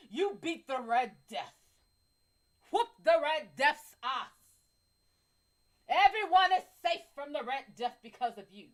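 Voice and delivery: loud, hammed-up flattering voice; mock doting praise. Praising the guy for beating the Red Death, hammed-up and loud. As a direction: gush over his heroics. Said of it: "You tell him".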